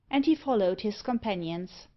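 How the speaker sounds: ordinary delivery, nothing marked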